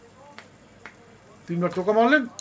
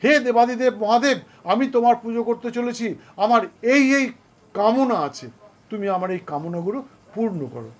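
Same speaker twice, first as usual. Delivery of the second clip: raised, fervent plea to Shiva, fading at the end; prayer; 3 semitones higher than usual. Shown as a demonstration. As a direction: beg the god to fulfil your wishes. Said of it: "আপনিও তখন বলবেন".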